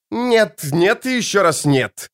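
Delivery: roaring, pitch jumps high; roaring tyrant king. A narrator's reading. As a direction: bellow it, pounding the table. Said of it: "взревел король Хенсельд".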